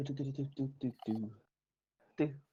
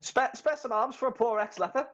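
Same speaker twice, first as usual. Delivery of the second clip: high pleading beggar whine, laughing; ex-leper beggar; 13 semitones higher than usual. Retold or imitated. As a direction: beg for alms in a high voice. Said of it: "the best one is".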